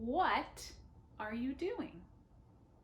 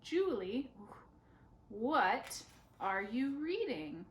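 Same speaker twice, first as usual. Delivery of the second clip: slow, clear model question; teacher modelling a question; much slower than usual. Shown as a demonstration. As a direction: say it slowly for learners to copy. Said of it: "Let's say it again".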